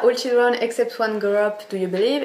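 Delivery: reading English with a French accent; English read aloud in a French accent. Shown as a demonstration. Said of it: "Excusez-moi pour mon accent".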